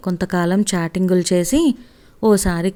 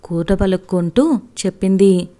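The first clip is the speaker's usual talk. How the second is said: usual speaking voice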